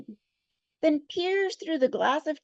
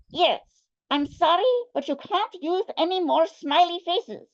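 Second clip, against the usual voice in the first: put-on Russian accent; 5 semitones higher than usual. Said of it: "better Russian accent".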